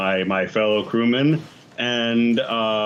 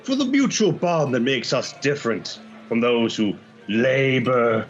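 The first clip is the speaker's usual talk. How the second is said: theatrical pirate speech with lingering, drawn-out key words; lightly voiced pirate making a proud speech; grandiose pirate orator; slower than usual. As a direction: hold forth to the tavern, swelling on the big phrases. Player gives pirate captain's speech.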